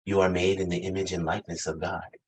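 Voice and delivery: sweet voice. Retold or imitated. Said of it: "my Maya Angelou, my voice that says".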